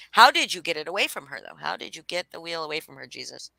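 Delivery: normal talking voice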